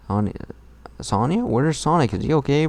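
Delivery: high anxious asking; worried. Acted. Reading a worried fox asking about Sonic, high and anxious. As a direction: fret aloud over Sonic.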